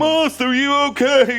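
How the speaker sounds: high, loud hunchback servant; Igor servant voice. Acted. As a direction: whine it like Igor. Igor servant bit to master.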